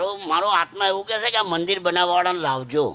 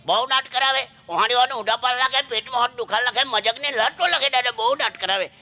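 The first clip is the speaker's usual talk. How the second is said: higher-pitched, gushing Surti dialect; 5 semitones higher than usual. Acted. Surti fan praising the comedian's jokes, higher-pitched Surti dialect. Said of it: "pure સુરતી ભાષામાં મને પૂછવા લાગ્યો".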